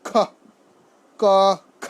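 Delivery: খ pushed out with a puff of breath, ক light; aspirated খ against unaspirated ক; aspirated kha. Shown as a demonstration. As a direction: contrast breathy খ with plain ক. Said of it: "হ যুক্ত হয়ে ধাক্কা দিয়ে উচ্চারণ করতে হয়".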